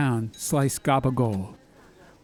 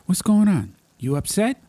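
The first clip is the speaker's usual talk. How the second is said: higher, worried call to his father; concerned son; 8 semitones higher, 5 dB louder than usual. Acted. Mazzy to his father in the kitchen, higher concerned call. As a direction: ask Pop what's wrong.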